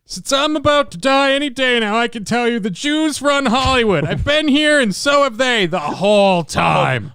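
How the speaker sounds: put-on old entertainer voice. Continues Dick Van Dyke bit.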